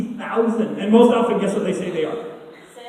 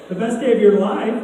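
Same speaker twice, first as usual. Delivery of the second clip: lightly imitated astonished mom; surprised; 2 semitones higher than usual. Mom questioning her daughter's best day, surprised. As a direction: echo it back as a puzzled, rising question.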